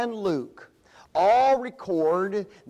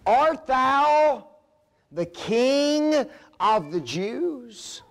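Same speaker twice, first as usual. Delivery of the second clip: raised, slowed imperious governor's question; Pilate questioning; 5 semitones higher, much slower than usual. Acted. Preacher voicing Pilate confronting Jesus, high and stern. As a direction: demand it like a Roman ruler, high and pressing. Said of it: "Here's the question that Pilate asked".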